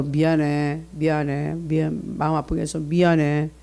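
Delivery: put-on low, subdued apology to a child; softening, repeated parental apology; apologetic parent. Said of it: "뭐라고 해야 되냐?".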